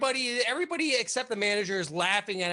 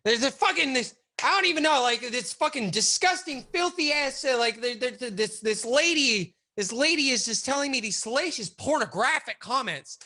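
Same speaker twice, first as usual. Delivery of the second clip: mock outraged rant; 4 semitones higher than usual. Boss ranting to the cops about filthy calls, indignant.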